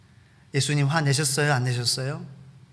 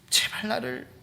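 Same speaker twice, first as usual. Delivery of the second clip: pleading demon; 6 semitones higher than usual. Acted. Demon begs.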